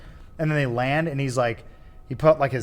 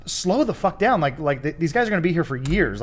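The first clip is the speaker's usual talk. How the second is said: flustered exasperation; 4 semitones higher than usual. Real, not acted. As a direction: get carried away arguing with the movie. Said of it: "I'm getting all flustered".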